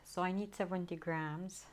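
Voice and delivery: breathless, winded speech; out of breath. Real, not acted. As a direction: talk while short of breath. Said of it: "I'm out of breath".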